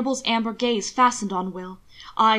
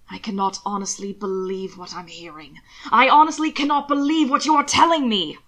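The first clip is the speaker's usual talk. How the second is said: disbelieving outrage; 4 dB louder than usual. Acted. Husband to Will, outraged disbelief rising louder. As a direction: let the disbelief boil over. Hannibal outraged at hidden attacks.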